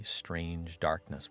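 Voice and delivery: ordinary talk, nothing marked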